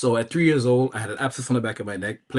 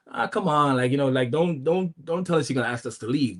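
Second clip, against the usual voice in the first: higher-pitched, mildly stubborn retold protest; a little stubborn; 3 semitones higher than usual. Stubborn twin balking at being asked to leave, mildly stubborn. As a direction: imitate a stubborn kid objecting, not aggressive. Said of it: "The other one was a little stubborn".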